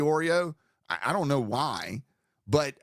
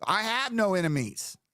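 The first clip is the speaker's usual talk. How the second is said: mock grandiose; 4 semitones higher than usual. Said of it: "can't even keep a straight face".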